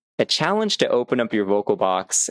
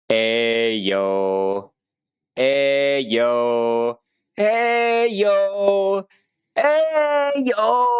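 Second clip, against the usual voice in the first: constricted rising yell; 4 semitones higher, much slower than usual. Shown as a demonstration. Teacher demos the bad example, building from easy to a tight, strained yell. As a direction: build up the volume until the throat chokes into a strained cry. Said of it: "listen for when my voice starts to get constrained".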